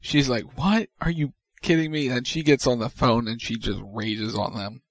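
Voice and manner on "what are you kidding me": higher mock outraged what; a retold burst of disbelief; mock outrage. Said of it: "loses her shit right then and there".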